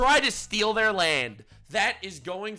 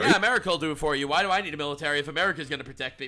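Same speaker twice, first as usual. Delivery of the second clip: mocking voice; much faster than usual. Mocking Canadian view, fast.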